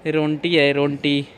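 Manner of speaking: रोंटी with a nasal n before ʈ; baby-talk roti. Shown as a demonstration. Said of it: "ये रोंटी है". (तोतली आवाज़ में रोंटी)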